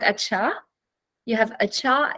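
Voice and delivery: "acha" stressed on its second syllable. Shown as a demonstration. Teacher shows learners where Hindi puts stress, second-syllable stress on "acha". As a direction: put the weight on the end of "acha", on "cha". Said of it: "you have the stress on the second syllable".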